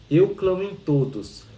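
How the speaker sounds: slow, even recital of a sacred line; calm reading voice. Retold or imitated. Teacher reads the text to her student, slow and even. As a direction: read it slowly, like a gentle audiobook narrator. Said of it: "ela fica assim".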